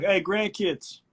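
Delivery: a hint of a boastful grandfather; lightly voiced grandpa pointing at a video; proud grandpa voice. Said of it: "I was gonna be like".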